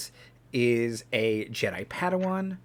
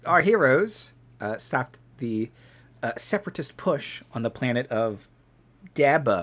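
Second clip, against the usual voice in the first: fighting game announcer. Pretend. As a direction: announce it like a match intro. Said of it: "announcer voice".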